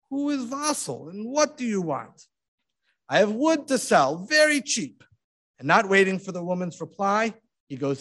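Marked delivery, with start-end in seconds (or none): 0.1-2.3 put-on high, suspicious old woman's voice; wary sick woman. A narrator's reading. Sick widow demanding who is knocking, wary. 3.1-5.0 high, loud hawker's offer; peasant seller. A narrator's reading. Disguised rabbi offering wood to widow, hawking.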